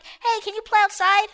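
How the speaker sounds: lightly mock an eager kid; put-on kid voice; imitated pestering kid. Voices the kid calling to play.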